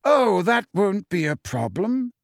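slow, pleasant and unbothered; breezy reassurance. A narrator's reading. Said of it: "said Dumbledore pleasantly".

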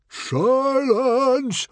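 huge high roar of command. A narrator's reading. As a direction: roar it to cut someone off. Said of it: "roared Stoic".

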